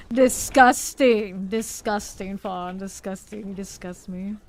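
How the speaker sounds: drawn-out disgust. Acted. Overreacting to partner.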